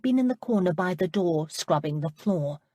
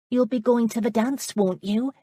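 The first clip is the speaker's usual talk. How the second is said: put-on higher, lighter voice for the girl Amanda; bright young girl pressing a question; young woman's voice; 6 semitones higher, 4 dB louder than usual. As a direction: play the eager young lass, pitched up. Amanda's voice, narrated scene.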